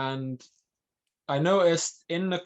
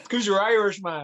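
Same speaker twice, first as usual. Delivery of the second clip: laughing; 3 semitones higher, 5 dB louder than usual. Real, not acted. Laughing interjection.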